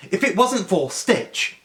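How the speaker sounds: slow, stiff correction; grudging councilwoman. Retold or imitated. Councilwoman using the alien's name, slow and grudging. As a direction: concede the name reluctantly.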